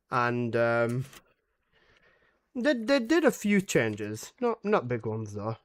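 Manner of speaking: dry, mocking sarcasm; sarcastic. Real, not acted. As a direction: say it like you obviously mean the opposite. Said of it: "That is complete sarcasm".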